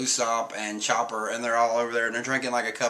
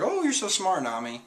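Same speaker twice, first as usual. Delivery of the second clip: high, gushing mock praise, dropping on the name; mock admiring crew; 7 semitones higher than usual. Crew gushing over Nami's cleverness, high mock praise. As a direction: fawn over how clever she is. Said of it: "And they're like".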